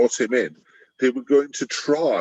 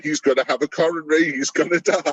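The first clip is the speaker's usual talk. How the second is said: mock fretting wife; 3 semitones higher, faster than usual. Wife fretting beside the high priest.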